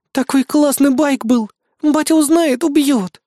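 high, loud, slow whine of loss; a hammed-up fretful lament; whining. A narrator's reading. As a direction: wail over the lost bike. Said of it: "Хорош ныть!".

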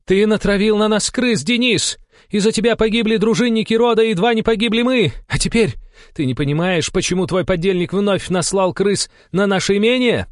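very high, loud accusing shout; powerful cry. A narrator's reading. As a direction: shriek the accusation across a tunnel. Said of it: "пронёсся мощный крик Аллы". (мощный обвиняющий крик)

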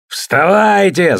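a high, slow bellow; roaring. A narrator's reading. Thor rouses the rowers to fight, slow high roar. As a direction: roar the men awake for battle. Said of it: "заорал он".

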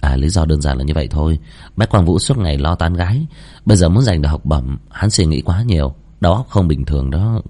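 low, composed explanation; lightly voiced unruffled excuse; very calm student. Giang Thế Bạch vô cùng bình tĩnh.

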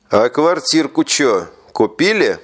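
mumbled around a cigarette; cigar in mouth. Acted. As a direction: talk with a cigarette in lips. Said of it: "Зажав сигарету в углу рта, невнятно спросил он".

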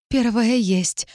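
disbelieving. Acted. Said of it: "не веря в собственный успех".

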